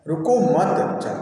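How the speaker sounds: slow "रुको मत" as one unit, then "जा"; "रुको मत", short stop, "जा"; pause after मत. Shown as a demonstration. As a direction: join "रुको मत", break before "जा". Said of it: "यहाँ रुको मत जाने के लिए कहा".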